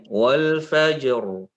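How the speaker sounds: slow, lightly trilled r in wal fajr; Arabic r. Shown as a demonstration. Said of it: "misalnya tadi ya".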